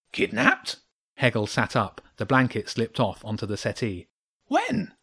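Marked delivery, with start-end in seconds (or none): 0.1-0.8 very high startled squeak; small animal voice, alarmed; hedgehog voice. A narrator's reading. 4.5-4.9 very high startled squeak; small animal voice, alarmed; hedgehog voice. A narrator's reading.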